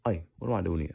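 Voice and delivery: light Hispanic accent attempt; put-on Hispanic accent. Shown as a demonstration. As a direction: open with a Hispanic-flavoured cry.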